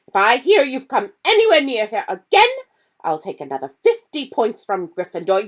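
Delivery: furious teacher laying down the law; losing her temper. Acted. McGonagall catching the boys again, angry and loud. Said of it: "this time she lost her temper".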